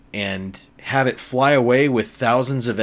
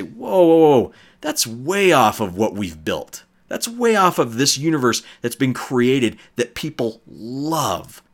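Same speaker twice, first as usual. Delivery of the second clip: louder, higher mock alarm; 3 semitones higher, 3 dB louder than usual. Brand manager halting the writers, in loud mock alarm. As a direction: throw up a loud, high whoa like a startled manager.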